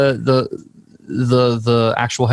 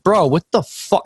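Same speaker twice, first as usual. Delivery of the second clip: mild mock anger; 5 semitones higher than usual. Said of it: "And I got mad".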